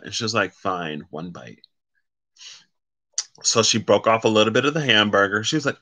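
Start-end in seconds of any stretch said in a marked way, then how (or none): 0.5-1.6 reluctant sigh. Retold or imitated. Retold girl reluctantly giving in.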